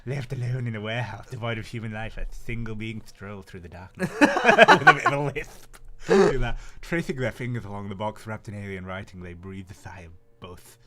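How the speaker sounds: creepy voice. Acted. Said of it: "a creepy pedo voice".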